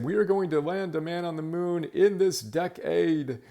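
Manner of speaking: put-on a rousing Boston accent like a moonshot speech; John F. Kennedy. Host quoting the moonshot speech in a Boston Kennedy accent. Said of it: "he says it with his beautiful accent".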